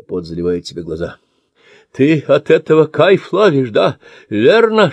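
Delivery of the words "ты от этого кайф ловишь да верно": hissing. Acted. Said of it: "шипит он".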